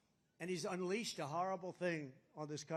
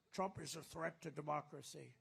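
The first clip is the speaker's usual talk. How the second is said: Biden; 4 semitones lower, 6 dB quieter than usual. Acted. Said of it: "You ever hear Biden?".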